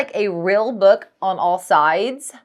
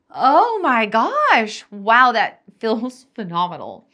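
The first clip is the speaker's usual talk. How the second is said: blissful relief; 2 semitones higher, 4 dB louder than usual. Retold or imitated. Imitating herself as husband massages her shoulders, blissful. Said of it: "I'm like".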